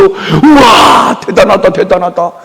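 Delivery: a drawn-out mock "우와" then fading praise; mock amazement. TV audience mocked gushing over a man's cooking. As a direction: gush over it, hammed-up.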